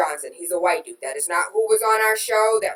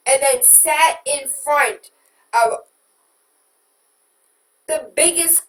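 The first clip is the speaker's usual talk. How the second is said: building angry rant; 3 semitones higher, 4 dB louder than usual. Real, not acted. Ranting list of Hillary's lies.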